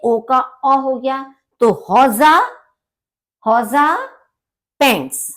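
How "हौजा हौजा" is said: हौजा with final a, rising; German pronunciation. Shown as a demonstration. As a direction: repeat हौजा for the class. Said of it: "आ की तरह से pronounce करते हैं". (हौजा, अंत में आ की ध्वनि)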